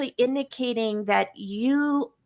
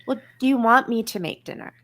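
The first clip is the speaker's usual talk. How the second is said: slightly quicker, grudging question; reluctant cop-out ask; faster than usual. Shown as a demonstration. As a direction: ask as if you'd rather not do it.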